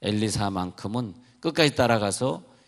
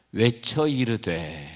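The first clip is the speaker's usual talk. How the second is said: drawn-out recitation; much slower than usual. Acted. Quoting the verse's cry, drawn out.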